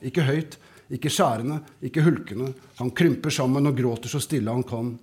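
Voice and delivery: calm, even reading of a story; story narration. A narrator's reading. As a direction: read the scene to listeners, steady and unhurried. Author reads his story aloud.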